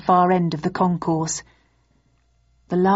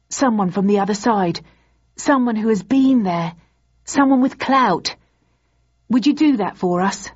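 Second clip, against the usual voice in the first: building plea; 4 semitones higher, 3 dB louder than usual. Acted. Student pleading, building.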